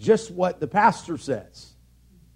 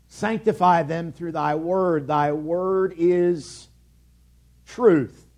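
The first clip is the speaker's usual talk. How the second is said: scripture recitation; slower than usual. Shown as a demonstration. Preacher quoting John to his congregation, slow scripture reading. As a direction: recite the verse deliberately, drawing out thy word is. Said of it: "John seventeen seventeen tells us".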